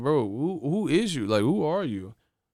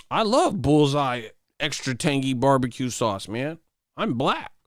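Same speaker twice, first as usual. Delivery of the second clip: mock poser voice; 2 semitones higher than usual. Poser announcing his favorite sauce, mocking voice. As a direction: declare it like an earnest phony. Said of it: "you just announce what barbecue sauce you love".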